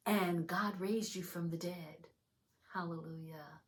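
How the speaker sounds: measured prayer with long pauses; earnest, spaced-out prayer, fading at the close; leading a prayer. Real, not acted. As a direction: lead them phrase by phrase to repeat. Leads a prayer of salvation.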